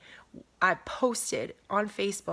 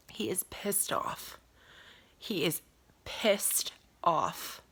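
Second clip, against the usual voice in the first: intense whisper; 3 dB quieter, much slower than usual. Real, not acted. Emotional statement about God.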